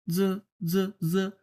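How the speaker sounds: "জ" as an airless dz; tongue pressed for "জ", no breath released; tongue touching "জ". Shown as a demonstration. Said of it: "এইখানে জিহ্বাটা লেগে গেছে". (বাতাস ছাড়া "জ")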